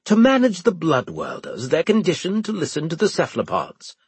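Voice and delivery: high, firm commanding tone; stern officer voice. Acted. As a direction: lay down the order. Winslade voiced.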